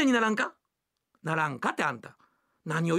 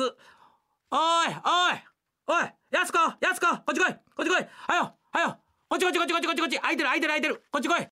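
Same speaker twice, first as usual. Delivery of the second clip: calling out; 4 semitones higher, faster than usual. Acted. Husband calling wife to seats.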